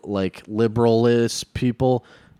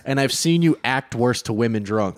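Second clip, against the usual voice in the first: exasperated retort; 5 semitones higher than usual. Retold or imitated. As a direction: call him out, annoyed. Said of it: "And I was like".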